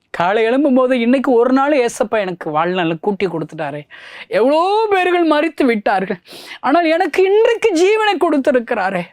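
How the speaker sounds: high, fervent preacher's voice; fervent preaching. Acted. Preacher thanking Jesus for another day, fervent high cry. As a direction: lift it high like a morning vow.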